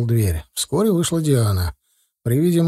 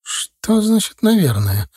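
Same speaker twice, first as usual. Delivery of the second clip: raised voice; 8 semitones higher, slower than usual. A narrator's reading. Mother throws the father's word back, voice raised. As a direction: throw his «наверное» back at him. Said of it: "повысила голос Оксана".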